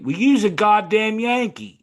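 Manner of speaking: loud mock Southern drawl; hammed-up Southern accent. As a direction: sneer it like a Southern local. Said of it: "southern drawl and the southern accent".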